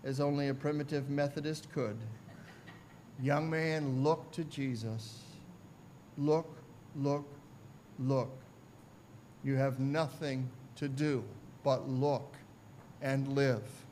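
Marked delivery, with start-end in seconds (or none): 3.2-13.8 low, soft pulpit appeal; underplay the shout, quiet and grave; hushed retold shout. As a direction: lower the voice and urge gently, word by word. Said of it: "he shouted at the top of his voice".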